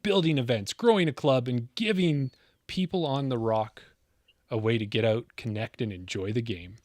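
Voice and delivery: movie-trailer style storytelling with swelling emphasis; dramatic origin-story narration. Acted. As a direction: narrate a mock-epic tale, building suspense.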